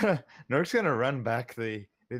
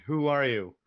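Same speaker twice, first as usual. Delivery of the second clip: louder, higher uneasy demand; kinda freaked out; 5 semitones higher, 7 dB louder than usual. Acted. Nork repeats his question to the bushes, kinda freaked out. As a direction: demand it loudly, a bit rattled. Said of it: "get kinda freaked out".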